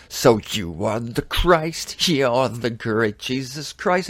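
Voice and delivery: slow, sneering mock of Herod; drawn-out jeering king. Preacher voicing Herod jeering at Christ, slow mocking. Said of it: "And he's mocking him".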